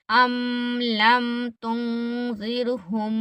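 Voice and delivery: slow, तुंज़िरहुम with its नून hidden in the nose; slow tajweed reading, nasal तुं; nasal ikhfa demo. Shown as a demonstration. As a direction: let तुं hum nasally into ज़िर. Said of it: "नाक में छुपाना है".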